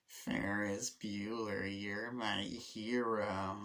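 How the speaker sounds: very slow, dreamy murmur; drawn out like he's half-drowned; lightly voiced dazed Cameron; dazed quote. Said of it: "the way he said".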